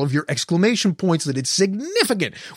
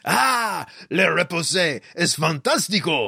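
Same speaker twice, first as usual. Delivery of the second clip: bad French; 3 semitones higher than usual. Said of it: "Still not French".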